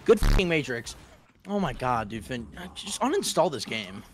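raging gamer. Real, not acted. Gamer ranting at teammate Finn.

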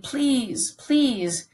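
high, breaking repeated please; beg, voice straining upward; pleading. A narrator's reading. Son begs his father, a desperate high plea. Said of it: "he pleaded".

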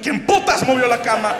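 loud panicked shout out of bed; mock panicked shout; startled yell. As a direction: yell at nobody in a fright.

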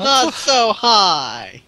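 high, loud, very slow yell; panicked shout. Real, not acted. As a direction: shout the warning again, desperate. Repeats warning, higher and slower.

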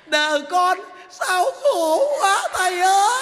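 a woman's hammed-up cry to the monk; mock wailing. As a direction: wail it like a mock weeping old woman. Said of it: "bà làm thấy ghê lắm kìa".

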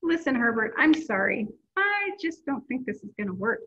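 lively storybook read-aloud voice; reading to children. A narrator's reading. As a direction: read it like story time for kids. Reading a picture book aloud.

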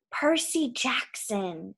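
drawn-out, sinister monster voice; cold evil, very slow. A narrator's reading. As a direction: slowly intone it as an evil being from the pit. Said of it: "voice changed until it was cold and evil".

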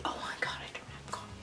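chuchoté à part, bien plus doux; whispered aside. Real, not acted. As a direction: murmurer pour soi, surprise. Whispered aside, no book at hand.

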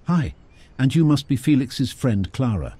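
cheerfully greeting. A narrator's reading. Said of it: "Olivia replied cheerfully".

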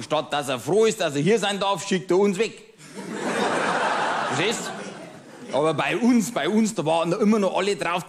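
a lightly voiced pub-table know-it-all, chatty and smug; grumbling Bavarian regular. Pub regular ranting to his old friend, smug grumbling. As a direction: play the pub-table ranter holding forth to his friend. Cabaret character monologue.

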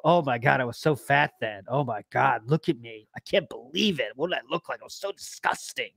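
mock self-disgust. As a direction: imitate someone appalled at himself, voice sinking. Mocking Phil's self-disgust, low and fading.

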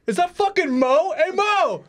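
high-pitched mock fan calling out; excited fan. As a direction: squeal like a starstruck baseball fan spotting a hero. Acts fans spotting undercover Mo.

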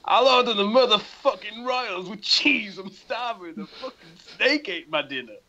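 put-on light American accent, forceful opening; American twang. Voicing a starving movie tough guy, American twang. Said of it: "with a little bit of an American twang".

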